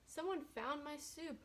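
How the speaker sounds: a small cub squeaking out the news; high squeaky bear cub. Acted. Little Baby Bear finds her soup gone, high squeak. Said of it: "in her high, squeaky voice".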